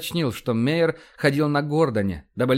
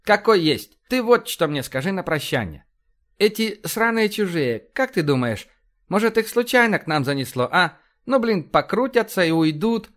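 higher, lively commander voice; blustering, animated officer, pitched up; brash police commander; 6 semitones higher than usual. Acted. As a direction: rattle off orders like a blunt cop boss.

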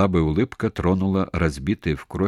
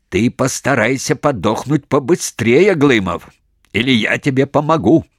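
raised, loud menace; loud threat; 6 semitones higher, 6 dB louder than usual. A narrator's reading. Major threatens Glymov in front of the ranks, loud. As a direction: threaten him openly.

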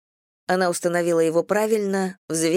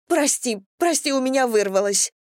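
higher, pleading and near tears; tearful apology; 7 semitones higher than usual. Acted. Irina apologises to Anna before crying, tearful and high. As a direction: beg forgiveness about to cry. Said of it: "Ирина заплакала".

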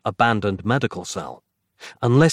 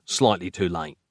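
ordinary delivery, nothing marked

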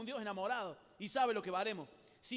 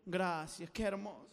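low, mock-touched thanks; agradecimiento enternecido; 4 semitones lower, slower than usual. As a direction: sigh with dreamy gratitude. Acts flattered by insult. (gratitud soñadora fingida)

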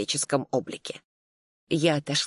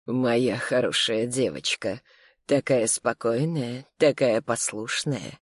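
lower, slow, syrupy cooing; sweet, cooing voice; 4 semitones lower, slower than usual. Acted. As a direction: coo it like soothing a pet. Husband strokes drugged wife's head. (сладко, медленно, ниже)

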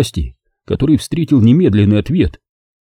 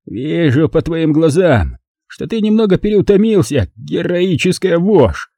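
put-on slow, higher, lightly drunk taunt; a touch of slurring drunk; mild mock drunk voice, unhurried; drunken mumble; 8 semitones higher than usual. A narrator's reading. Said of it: "заплетающимся языком пробормотал Броган".

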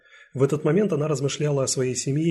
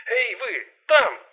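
slow call; 12 semitones higher, 5 dB louder, much slower than usual. Acted. Calling again, no answer.

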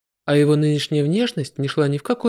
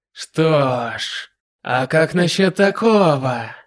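slow, mocking demon lord; taunting villain; slower than usual. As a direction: taunt the hero, unhurried.

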